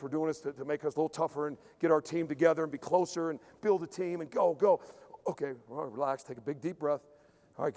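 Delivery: low, soft self-coaching; calm self-talk. Retold or imitated. Athlete calming himself before the next rep. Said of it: "They're thinking about the outcome".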